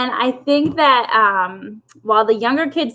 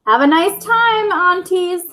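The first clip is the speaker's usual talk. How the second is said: higher, lightly voiced young hen calling farewell; 7 semitones higher, slower than usual. Henrietta calling goodbye to her aunties, mild call. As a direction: call after the truck sweetly. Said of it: "Henrietta cried".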